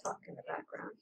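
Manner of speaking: whispered; a soft unvoiced whisper. Real, not acted. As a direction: breathe the words out.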